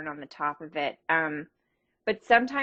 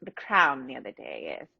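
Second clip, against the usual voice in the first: hint of queenly British; British accent. Host chatting about watching The Crown, playful British accent. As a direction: put on a light regal British accent. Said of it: "I like your British accent".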